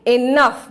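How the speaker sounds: "Enough" said alone as ih-NUF; British English pronunciation. Shown as a demonstration. Teacher answering how to say it, "Enough" pronounced ih-nuf. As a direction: demonstrate "Enough" as a careful ih-nuf. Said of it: "British English में उसको हम लोग enough बोलते हैं".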